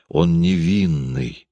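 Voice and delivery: slow, dreamy tenderness; quiet and dreamy. Acted. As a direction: murmur it as if lost in reverie. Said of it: "тихо и мечтательно".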